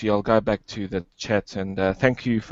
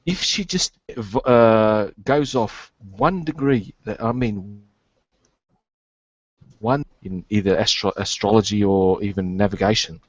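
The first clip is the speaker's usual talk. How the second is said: choppy cutting-out audio; breaking up connection. Real, not acted. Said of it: "You're breaking up, mate".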